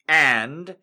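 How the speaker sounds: measured storytelling read with deliberate pauses; story narration. Acted. Fanfic narration continues.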